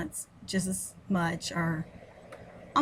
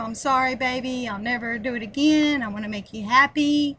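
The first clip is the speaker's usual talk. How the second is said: lightly imitating his charming apology, a bit louder; mock sweet-talking ex; 3 semitones higher, 6 dB louder than usual. Woman imitating her ex's charming phone apology, mildly louder mock sweet talk. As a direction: sweeten it like a smooth-talking ex, half-mocking. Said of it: "gave me that charm".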